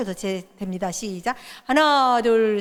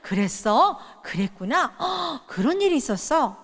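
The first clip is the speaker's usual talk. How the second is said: attentive listening; 3 semitones higher, slower than usual. Shown as a demonstration. A parent listening warmly to a child's story. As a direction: sound genuinely curious and caring. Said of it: "그래서 아이가 하면은".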